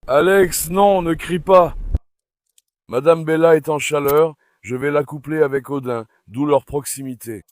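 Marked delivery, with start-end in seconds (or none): 0.1-1.8 raised, drawn-out telling-off; slowly and firmly order a dog to stop; firm scolding. Real, not acted. Owner tells Alex the dog not to cry, firm scolding.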